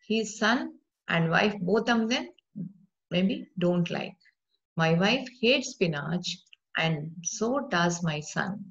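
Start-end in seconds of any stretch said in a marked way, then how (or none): 4.8-8.6 slow, careful teacher reading; slow model sentence. Shown as a demonstration. Teacher reading the example slowly to students. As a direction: spell it out slowly for the class. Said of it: "See here, so does is giving kind of answer".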